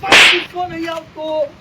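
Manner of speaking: loud, insistent repeated denial; angry denial. Acted. Grandpa still loudly denying his anger to the grandson. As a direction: keep hammering that you're not angry.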